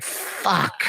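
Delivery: soft, voiceless mock groan of defeat; whispered defeated curse; mock dejected mutter. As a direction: breathe it out like a beaten man. The speaker dejected in a room.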